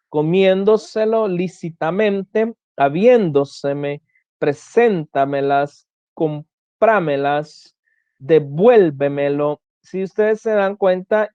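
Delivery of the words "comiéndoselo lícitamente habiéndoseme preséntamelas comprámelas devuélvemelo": comiéndoselo, habiéndoseme, preséntamelas, each stressed early with the tail unstressed; word-by-word demo, comiéndoselo to devuélvemelo, fourth syllable from the end emphasized; stress on fourth-last syllable. Shown as a demonstration. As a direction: lean on "sén" in preséntamelas and "vuél" in devuélvemelo. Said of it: "el acento en la cuarta sílaba".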